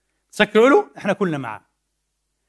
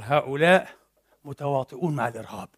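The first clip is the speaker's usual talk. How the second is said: hushed quote; 6 semitones lower, 8 dB quieter than usual. Retold or imitated. Quoting Trudeau with hushed emphasis.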